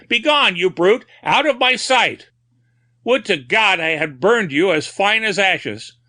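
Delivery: high, loud cursing rage; raving fury. A narrator's reading. Madman cursing the phantom dog, furious shouting. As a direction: drive the brute away with fury.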